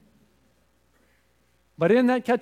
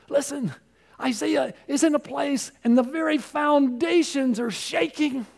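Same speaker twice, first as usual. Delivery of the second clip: high, loud, eager exclamation; excited burst; 7 semitones higher, 3 dB louder than usual. Real, not acted.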